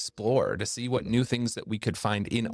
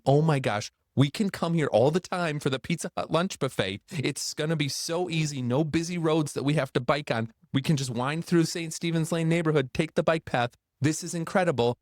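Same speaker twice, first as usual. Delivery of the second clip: higher, eager rush of excitement at a secret shortcut; excited teen chatter; 6 semitones higher than usual. Retold or imitated. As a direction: retell the boys' giddy plan, bubbling over. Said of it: "my friend Jeff and I are so excited".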